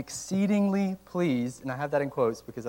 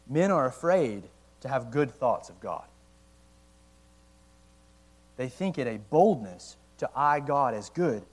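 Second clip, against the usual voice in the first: reading slowly; 4 dB louder than usual. Real, not acted. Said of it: "I have to read it slow".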